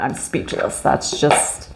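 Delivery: overwhelmed reader, hushed whisper; awed whisper. Real, not acted. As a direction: whisper it, lost for words. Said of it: "I'm, like, speechless on that".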